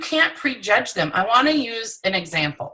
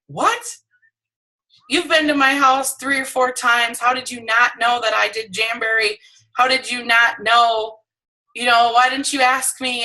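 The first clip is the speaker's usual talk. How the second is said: incredulous; 3 semitones higher than usual. Retold or imitated. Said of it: "I was like".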